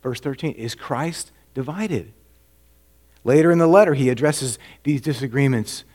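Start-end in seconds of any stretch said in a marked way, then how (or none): 0.5-2.1 softer, slow rhetorical ask; slow quiet question. Retold or imitated. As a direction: let it hang, slow and quiet. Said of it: "And he asks".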